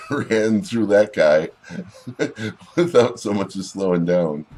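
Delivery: loud, laughing delight at the carnage; laughing excited. Real, not acted. Watching a dwarf plow through a goblin, loud laughing delight. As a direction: cackle it out, thrilled by the charge. Cheering a brutal charge in game.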